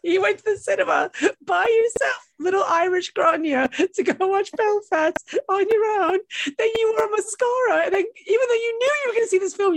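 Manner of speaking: high, laughing mock outrage; teasing her friend while laughing; laughing tease. Real, not acted. Teasing co-host's solo cinema cry.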